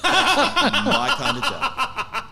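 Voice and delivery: laughing through an ironic reply; a breaking laugh over a wry line; laughing quip. Retold or imitated. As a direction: laugh out the words, amused at the irony.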